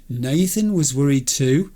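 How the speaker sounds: rising in disbelief; stunned rising question; incredulous echo. Real, not acted. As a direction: repeat it as if you can't believe it. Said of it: "Somebody pinch me".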